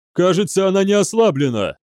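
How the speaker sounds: high, urgent call; alarmed report. A narrator's reading. Тревожный доклад офицера в бою. (встревоженно выкрикнуть доклад)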